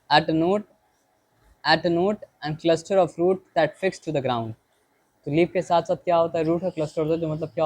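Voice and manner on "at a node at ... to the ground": each word read out slowly and deliberately; slow textbook reading. Shown as a demonstration. Teacher reading the book aloud to the class, slow dictation.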